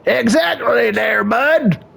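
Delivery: a lightly voiced Canadian-style bud guy ranting; hint of a hick complaining to the therapist; lightly voiced boyfriend griping about his girlfriend; redneck boyfriend. Boyfriend character again.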